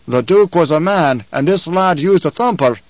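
lightly voiced commanding tribesman; firm tribal leader. Stilgar defends the lad to his man, firmly. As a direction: argue back with firm authority. Leader argues back with the objector.

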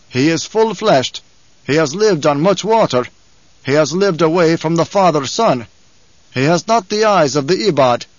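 lightly voiced commanding tribesman; tribal leader, firm then wondering. Stilgar weighs the child man before his tribe, firm. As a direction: declare it in measured, emphatic phrases.

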